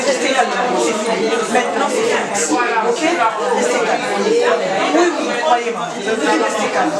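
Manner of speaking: calming reassurance. Real, not acted. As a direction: settle an upset crowd, keeping the voice low. Calming an upset crowd. (apaisant et rassurant, voix posée)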